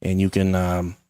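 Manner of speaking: hammed-up Canadian accent with eh. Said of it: "working on my Canadian accent".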